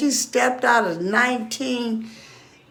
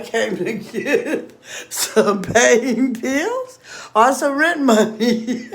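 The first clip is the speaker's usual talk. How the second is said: laughing quote; slower than usual. Retold or imitated. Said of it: "And she was like".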